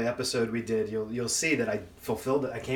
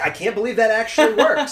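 amazed; 8 semitones higher, 8 dB louder than usual. Retold or imitated. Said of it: "it's like".

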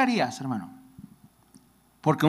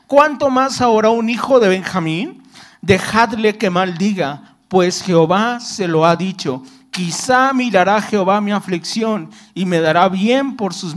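lectura bíblica. Acted. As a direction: read the verse out to the congregation. Reading scripture aloud. (leyendo la Biblia en voz alta)

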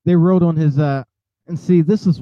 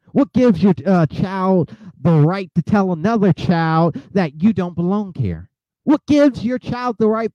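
outraged pitch rising; 3 semitones higher than usual. Real, not acted. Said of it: "y'all got me mad and outraged".

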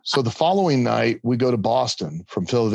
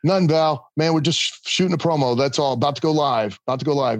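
innocent cover; 5 semitones higher than usual. Retold or imitated.

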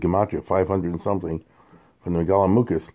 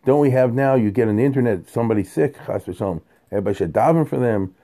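pleading prayer; 3 semitones higher than usual. Retold or imitated. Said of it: "why didn't they say".

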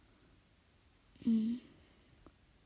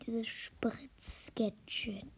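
hushed whisper, trying not to be heard; much slower than usual. Real, not acted. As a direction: whisper so nobody wakes up. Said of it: "Ich muss leise sein".

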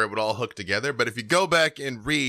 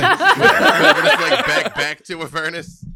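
dramatic announcer; 6 semitones higher, 10 dB louder, slower than usual. Pretend.

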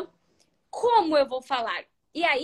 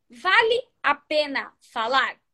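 slow dictation; 3 dB louder, slower than usual. Shown as a demonstration. Repeats it for note-taking.

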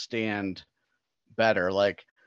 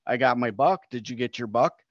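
lightly put-on Minnesota-Wisconsin accent; mock Wisconsin-Minnesota lilt; imitated Wisconsin accent. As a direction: do a neighborly Upper Midwest hunter's accent. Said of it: "that's Wisconsin, Minnesota, and they're like".

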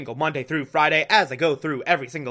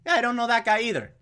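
Alfred voice; 7 semitones higher, much faster than usual. Retold or imitated. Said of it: "Alfred's like".

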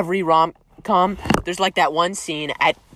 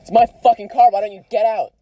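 play-fighting raised voice; louder, mock-angry outburst; mock argument yelling; 3 semitones higher than usual. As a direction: pretend to have a loud row. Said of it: "we're yelling really loudly".

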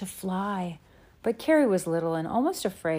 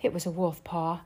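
out of breath. Acted. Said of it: "Laura gulped, catching her breath".

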